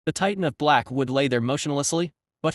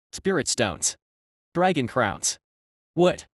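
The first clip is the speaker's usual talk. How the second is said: monotone voice; slower than usual. Acted. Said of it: "in her usual monotone voice".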